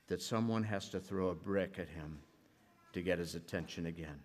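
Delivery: measured storytelling voice, read aloud; story narration. A narrator's reading. Pastor telling the congregation a story, steady narration.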